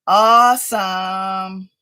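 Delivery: slow, drawn-out voiced Awesome; excited. Real, not acted. Answering viewers on the live, drawn-out excited voice. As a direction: savor "Awesome" slowly, full voice. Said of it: "If I sound a little excited".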